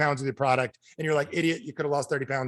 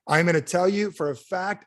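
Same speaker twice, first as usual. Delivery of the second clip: ordinary talk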